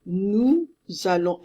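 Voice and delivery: "Nous allons" slow, linked by z, last S unsounded; silent final S. Shown as a demonstration. Teacher models it for students, silent final S. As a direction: say "Nous allons" ending on the nasal vowel.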